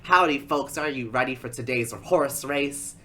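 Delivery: loud, punchy race announcer imitation; full-on announcer. Race announcer greets folks before the horse race, hammed-up announcer voice. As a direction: play the announcer rallying the crowd. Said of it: "full-on announcer".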